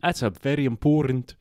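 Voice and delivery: playful New Zealand accent on "important"; put-on New Zealand accent; Kiwi accent. Shown as a demonstration. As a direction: keep up a mock Kiwi voice. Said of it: "they say important".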